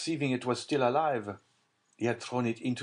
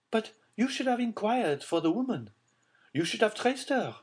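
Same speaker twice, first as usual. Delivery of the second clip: high Baroness voice; 13 semitones higher than usual. A narrator's reading. Baroness reproaching Villefort.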